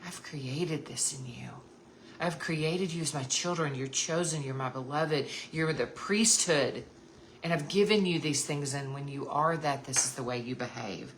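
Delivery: gentle reassuring God. Pretend. God telling his beloved children who they are, tender. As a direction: speak it like a loving father. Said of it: "he says".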